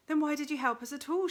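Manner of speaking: put-on boy shouting up at the voice, angry. A narrator's reading. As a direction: shout it at the voice, furious. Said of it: "shouted Milo angrily".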